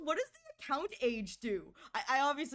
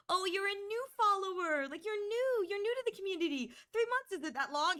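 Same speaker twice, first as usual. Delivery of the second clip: mocking condescending streamer; 7 semitones higher than usual. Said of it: "Be like".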